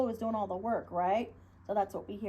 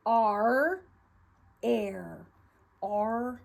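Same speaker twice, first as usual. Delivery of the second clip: pirate voice; 5 dB louder, much slower than usual. Shown as a demonstration. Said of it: "get your pirate hook".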